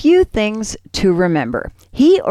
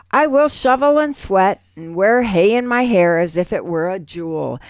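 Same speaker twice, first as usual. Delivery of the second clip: poem reading. Acted. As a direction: read it like a tender poem. Poem read aloud.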